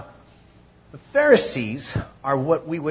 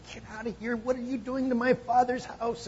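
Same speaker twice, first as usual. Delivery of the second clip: retold Jesus outburst; 11 semitones higher than usual. Jesus voiced in temple story.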